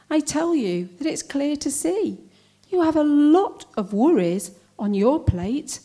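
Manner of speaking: measured comic poem with pointed pauses; poem recital. Acted. Poet addressing well-meaning acquaintances about cancer, wry recital. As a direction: recite it with lively, swooping intonation.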